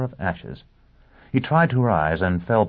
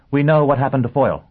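urgent excited; 8 semitones higher, 7 dB louder than usual. A narrator's reading. Urgent news bursting in.

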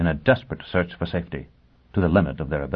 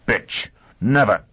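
Foyle's voice; 3 semitones higher, slower than usual. Acted. Foyle's defiant cry.

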